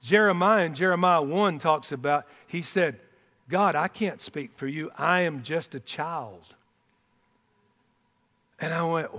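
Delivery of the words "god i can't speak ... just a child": soft, low humble plea; lowered voice, slowing at the end; timid protest. Acted. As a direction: quote a humble objection softly. Acting Jeremiah's timid reply.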